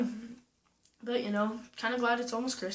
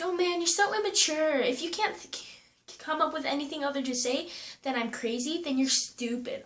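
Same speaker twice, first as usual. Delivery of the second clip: mocking girl voice; 5 semitones higher than usual. Quoting the girl's insult.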